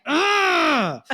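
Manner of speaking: a high, exasperated warning grunt; frustrated grunt. Retold or imitated. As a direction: grunt to signal you're about to lose it. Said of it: "where we get really mad".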